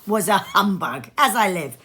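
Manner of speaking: lightly voiced young man crying out; a touch of a cry, amused; nephew crying out. Nephew to his guests, mild amused outcry. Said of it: "cried Scrooge's nephew".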